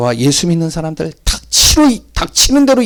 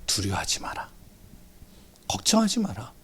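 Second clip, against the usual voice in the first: whisper; 7 semitones lower, 14 dB quieter than usual. Acted. Preacher quotes scripture comfort.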